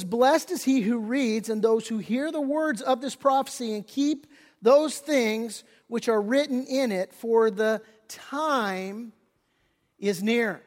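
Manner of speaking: slow measured scripture reading. Acted. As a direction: read the verse slowly, with weight. Reads scripture aloud.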